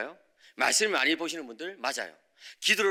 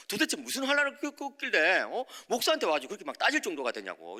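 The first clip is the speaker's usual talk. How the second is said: baffled questioning; 2 semitones higher than usual. Retold or imitated. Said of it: "제가 더 궁금해가지고".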